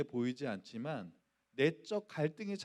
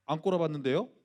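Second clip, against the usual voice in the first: defiant retort; 6 dB louder, faster than usual. Retold or imitated. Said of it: "자존심을 세우기로 결단하고".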